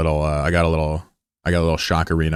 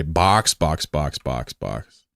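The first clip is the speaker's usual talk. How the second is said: Shaco; 5 semitones lower, 3 dB quieter, much slower than usual. Acted. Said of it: "As my old friend Shaco used to say".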